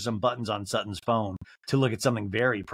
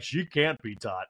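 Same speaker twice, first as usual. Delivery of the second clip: slow echo in a near-usual register; Garcelle; slower than usual. Retold or imitated. Housewife echoing her friend's verdict, slow understated impression.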